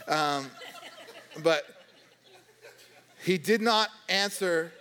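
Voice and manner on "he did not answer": slow, laughing through the words; can't hold back a laugh while reading it. Real, not acted. Laughs reading Jesus' silence.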